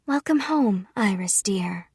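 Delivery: bright call fading to a whisper; mother's welcome. Acted. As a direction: greet her daughter, then hush tenderly. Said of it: "said Mother".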